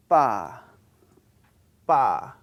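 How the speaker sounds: pa with a strong breathy burst of air; aspirated pa. Shown as a demonstration. Teacher demonstrating aspirated pa. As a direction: build up the air, then release pa. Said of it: "you build up your air as you pronounce pa".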